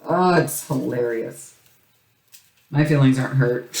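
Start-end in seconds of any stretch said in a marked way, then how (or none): 2.7-3.7 "My feelings aren't hurt" said lightly, a touch of mock pout. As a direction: brush it off with a mild pretend sulk. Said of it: "No, it's fine".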